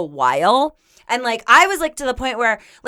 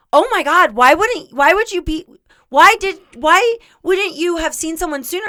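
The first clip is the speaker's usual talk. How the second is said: mildly raised, incredulous stammer; imitating a shocked doctor; appalled questioning; 5 semitones higher than usual. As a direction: stumble over the question in disbelief.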